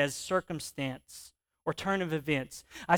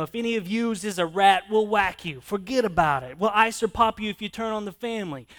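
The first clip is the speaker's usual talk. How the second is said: loud Italian-American mobster, pitched up; Italian mafia accent; 4 semitones higher, 7 dB louder than usual. Acted. Preacher voicing the young counselors as mafia thugs, loud Italian mobster accent. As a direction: threaten like an Italian mob enforcer. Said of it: "I kinda picture this Italian accent coming out here".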